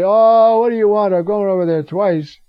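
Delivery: loud, high put-upon whine; hammed-up annoyed complaint; mock grumble. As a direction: play the irritated boy who's been woken twice. Imagined complaint Samuel doesn't say.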